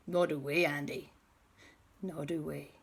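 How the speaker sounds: soft, subdued reply; subdued admission. Acted. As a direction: admit it quietly. Admitting they have no plan.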